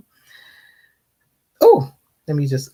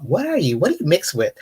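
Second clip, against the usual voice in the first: rude questioner; 3 semitones higher than usual. Retold or imitated. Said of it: "in a very rude way".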